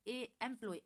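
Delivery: एम्प्लॉय opening on an open e vowel; vowel-first pronunciation. Shown as a demonstration. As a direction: isolate ए, then say एम्प्लॉय. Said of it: "ऐसे बोलते हैं हम".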